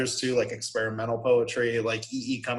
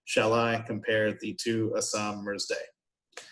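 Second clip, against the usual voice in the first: slow, even beat on I, compare, to, summer's, day; five-beat iambic stress; slower than usual. Shown as a demonstration. Teacher showing five iambs in a line, measured iambic stress. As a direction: measure out "Shall I compare thee" slowly, every second syllable stressed. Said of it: "it does that five times a line".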